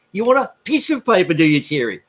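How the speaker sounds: mocking French accent. Bartender mocking Thierry's French accent back at him. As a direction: tease him by copying his accent. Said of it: "taking the piss out of his accent".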